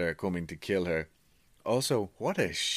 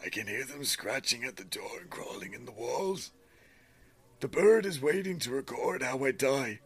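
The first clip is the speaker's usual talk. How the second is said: dramatic storytelling read, higher than usual chat; story narration; 6 semitones higher than usual. A narrator's reading. Reader tells friend a creepy bird tale, dramatic narration. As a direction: read the creepy diary aloud with relish.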